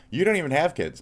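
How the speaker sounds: high angry yell; furious shout. Real, not acted. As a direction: throw it at her in real anger. Ranting at online critic.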